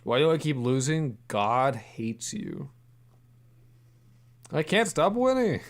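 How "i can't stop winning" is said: much higher and louder; triumphant cheer at a win; excited shout. Real, not acted. Gambling streak, triumphant cheer.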